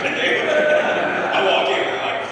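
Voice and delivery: words squeezed through a laugh. Real, not acted. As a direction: giggle through the line.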